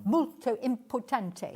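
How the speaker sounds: slow, hammed-up Italian flourish; fake Italian accent. Shown as a demonstration. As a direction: lean into a cheesy Italian accent. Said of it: "Do it again, go on".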